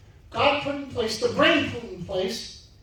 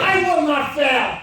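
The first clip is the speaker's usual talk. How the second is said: booming motivational speech; 4 semitones higher, 5 dB louder than usual. Shown as a demonstration. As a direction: call it out like a coach. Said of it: "repeat after me".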